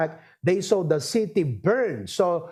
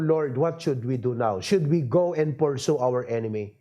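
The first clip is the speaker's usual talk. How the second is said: David asking God; 6 semitones lower than usual. Retold or imitated. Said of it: "Kat kunana ti Apo".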